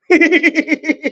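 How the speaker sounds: high cackling laugh like a witch; witchy cackle. Real, not acted. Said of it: "I sounded like the Wicked Witch".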